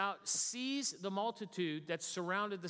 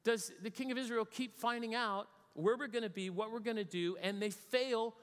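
higher-pitched, mildly exasperated mock outburst; ticked off; 3 semitones higher than usual. King venting to his officers about failed ambushes, mock ticked off. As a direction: act out a king's baffled irritation, pitched up. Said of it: "gets ticked off".

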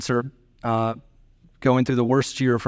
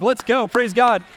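much higher, slow joyful cheer; excited praise; 11 semitones higher, 3 dB louder, slower than usual. Retold or imitated. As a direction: celebrate it. Son celebrating news.

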